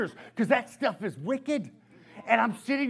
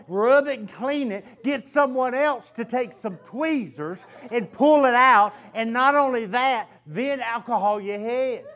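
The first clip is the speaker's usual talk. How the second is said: reading advice laughing; 5 dB louder than usual. Retold or imitated. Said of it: "come up and said".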